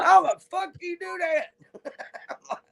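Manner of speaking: high and slow, in wonder; amazed disbelief. Retold or imitated. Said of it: "I'm like".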